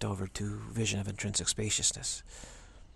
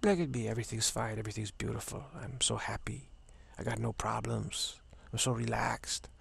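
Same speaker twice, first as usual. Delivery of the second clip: put-on lightly accented, blissfully relaxed friend; easy Spanish with Italian leaking in; Juan Carlos, slight Italian-Spanish accent. Carefree friend saying all is well, light Italian-Spanish accent. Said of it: "a little bit of Italian".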